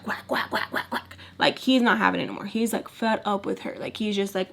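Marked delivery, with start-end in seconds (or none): 0.0-1.2 soft unvoiced quack quack quack; muffled quacking. Dad's scolding heard through the door, as soft quacks. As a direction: mimic muffled arguing through a wall. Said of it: "all you hear is like".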